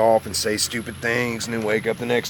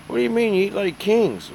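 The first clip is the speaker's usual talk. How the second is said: much higher, louder mock astonishment; amazed stranger; 12 semitones higher, 4 dB louder than usual. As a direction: play the stranger floored by the seafood menu. Imitating a stranger's amazed reply.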